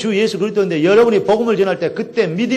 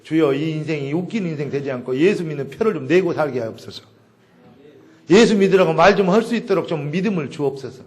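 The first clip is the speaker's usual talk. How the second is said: low, subdued model prayer; 4 semitones lower, 3 dB quieter than usual. Shown as a demonstration. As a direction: pray softly on someone's behalf. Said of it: "기도해줘". (낮은 목소리로 드리는 기도)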